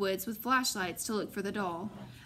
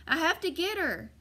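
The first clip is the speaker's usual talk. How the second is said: frantic plea; 7 semitones higher than usual. A narrator's reading. Girl frantic for her doll.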